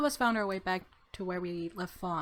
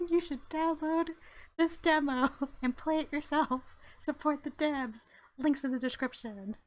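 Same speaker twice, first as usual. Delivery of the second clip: laughing; 7 semitones higher than usual. Real, not acted. Laughing plug for the demo.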